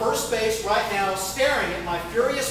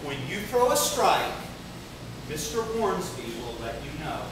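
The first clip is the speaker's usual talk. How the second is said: calm. Retold or imitated. Umpire calmly putting the rookie in his place. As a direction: settle the kid down, unhurried. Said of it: "and calmly says".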